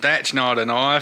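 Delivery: lightly imitated Australian movie line; Crocodile Dundee. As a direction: draw it out slowly, a hint of Aussie. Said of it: "Say it".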